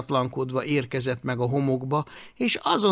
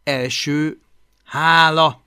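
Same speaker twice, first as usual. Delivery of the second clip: reading aloud; 2 semitones higher, 8 dB louder, slower than usual. A narrator's reading. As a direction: list item read out deliberately. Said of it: "olvasta hangosan".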